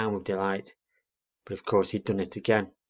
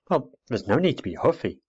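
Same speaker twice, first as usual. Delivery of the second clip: put-on indignant girl; 4 semitones higher, 3 dB louder than usual. Girl rebukes huffy owl.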